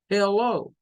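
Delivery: "hello" begun with a clear "heh"; E first vowel. Shown as a demonstration. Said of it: "¿Escuchan la diferencia?".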